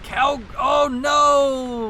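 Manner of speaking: sudden, drawn-out alarmed cry; startled shout. Real, not acted. Caster yelling as his camera view breaks, startled shout. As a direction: yelp as the shot goes wrong. Camera mishap mid-cast.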